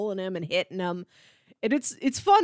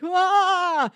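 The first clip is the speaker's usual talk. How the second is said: mock moan; 9 semitones higher, 3 dB louder than usual. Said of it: "trapped souls moaning".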